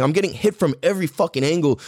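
plain reading voice

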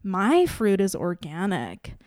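slow, measured one-upmanship; mock superiority. Voicing a cool-crowd shopper looking down on others, mock superiority.

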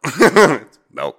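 "milk" as "melk", high and loud; Ohio "melk". Retold or imitated. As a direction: laughingly insist on "melk" for "milk". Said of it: "we say milk though".

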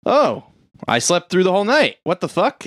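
high, quick mock startle; imitated sudden realization; retold waking surprise.

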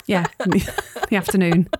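put-on light Scouse accent as Sam, teasing her mum; gentle Liverpool nagging, accent held lightly. Sam chides her mum about the heating, light Scouse. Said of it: "I've forced you to do a Scouse accent".

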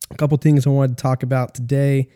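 sick voice, congested and under the weather. Real, not acted. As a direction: talk like you've got a bad cold. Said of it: "I sound fucking sick".

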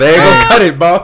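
high, loud shout over the room. Real, not acted. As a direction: yell it to cut through. Same line shouted high.

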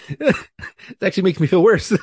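high, slow, laughing aside. Real, not acted. Telling the podcast host, laughing at the absurd compliment. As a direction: say it through a laugh.

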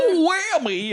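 very high-pitched, playful holler; mock whooping catchphrase. Retelling Champ making his move at her desk, high whoop. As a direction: whoop it out with a laugh behind it.

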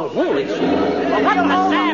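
low dumbfounded exclaim; the floor just dropped out; stunned. Acted. McGee realizing the robbery was real, stunned.

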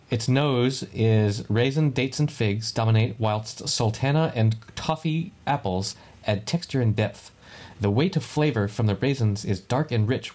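slow, savoring tasting-note read. Acted. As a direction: read it like a sommelier. Reads tasting notes aloud.

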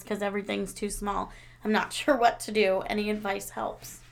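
even, matter-of-fact read-aloud; reading a letter aloud. Acted. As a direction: read a listener's message out evenly. Reads out listener's letter.

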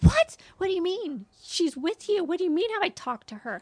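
sharp high startled what, then fast confused questions; shocked what. Retold or imitated. Mom hearing her daughter is missing, high startled disbelief. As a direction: reenact the panic of the call. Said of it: "And I said".

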